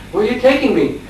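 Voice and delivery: high-pitched retold protest; mock alarmed question. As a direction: ask it in mild, acted alarm. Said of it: "Dhanadhar was saying".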